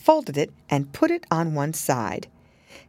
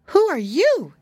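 put-on little girl; 11 semitones higher, 5 dB louder than usual. A narrator's reading. Lucy voiced in story.

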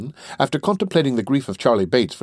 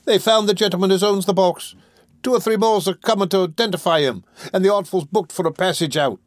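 put-on high, raised young thief's voice; Charlie, woeful; 10 semitones higher, 4 dB louder than usual. Charlie bringing Fagin bad news, woeful. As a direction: report disaster in a high lament.

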